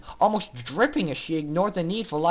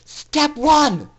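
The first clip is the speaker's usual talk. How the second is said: high, loud commanding cry; scream; 8 semitones higher, 6 dB louder than usual. A narrator's reading. Scootaloo leading the rebellion, screamed command. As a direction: bark the order to the fillies. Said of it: "Scootaloo screamed".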